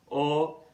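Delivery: short rounded British O, as in lock; RP vowel O. Shown as a demonstration. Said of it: "in British English".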